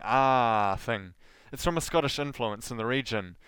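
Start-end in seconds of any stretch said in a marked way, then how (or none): 0.0-0.8 "ah" as a long, rolled Southland R; rolling R. Shown as a demonstration. Podcaster showing off a Southland accent, rolling R. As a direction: draw out "ah" into a wacky rolling R. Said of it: "I do some wacky rolling".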